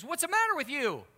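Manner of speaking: loud, high-pitched outraged yell; angry yelling. Retold or imitated. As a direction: act out an indignant man yelling at an officer. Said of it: "he's yelling at the police officer".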